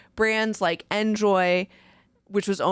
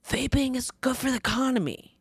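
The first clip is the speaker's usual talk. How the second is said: lightly put-on lobbyist voice, higher; mock lobbyist; 5 semitones higher than usual. Host mimicking lobbyists defending vaping, lightly mocking put-on voice. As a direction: give a hint of a mocked industry mouthpiece. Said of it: "Lobbyists say".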